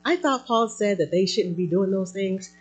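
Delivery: high-pitched mock questioner; puzzled objectors. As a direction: imitate a congregant raising a doubtful objection. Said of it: "all the people who were like".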